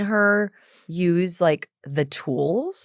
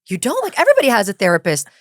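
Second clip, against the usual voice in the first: reverse psychology; 2 semitones higher, faster than usual. Retold or imitated. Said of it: "a little bit of reverse psychology".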